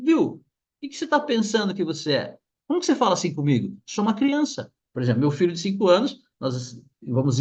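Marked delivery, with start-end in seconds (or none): 0.0-4.7 higher, lightly acted protest; mock telling-off from a wronged child; indignant child. Hurt child confronting the adult who humiliated them, indignant. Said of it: "ou falar assim".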